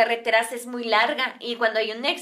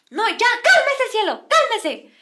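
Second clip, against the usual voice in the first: slow, high, loud plea; desperate husband; 10 semitones higher, 6 dB louder, slower than usual. Retold or imitated. Man begging cielo to calm down, loud imitated plea. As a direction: imitate pleading shouted over a row. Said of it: "Me acuerdo mucho que le decía así".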